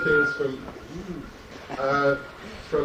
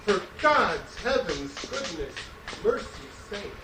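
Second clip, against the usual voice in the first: steady, pounding chant with a fall on every line; marching song poem. Acted. Poet to audience, reading his marching song as a pounding chant. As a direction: drive each line like a drumbeat of conquest.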